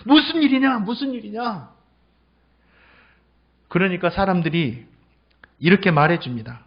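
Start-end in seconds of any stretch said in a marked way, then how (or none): 0.0-1.7 higher-pitched questioning call; acted-out eager question; curious blind beggar. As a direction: ask the crowd, voice raised in pitch. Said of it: "사람들에게 물어보는 거예요".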